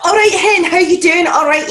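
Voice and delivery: high, loud Scottish greeting; imitating a very Scottish client; Scottish accent. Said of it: "she was so Scottish".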